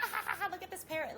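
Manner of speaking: high, fast cackling laugh through the words; amused coach laughing at the parrot. Retold or imitated. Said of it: "He's like".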